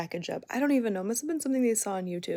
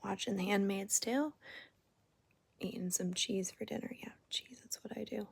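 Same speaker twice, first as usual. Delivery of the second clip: hushed late-night whisper; soft whispered vlog chat; 2 semitones higher, 7 dB quieter than usual. Real, not acted. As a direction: keep it to a whisper so nobody wakes.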